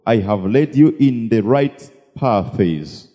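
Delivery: scripture reading. Acted. Interpreter reads out scripture.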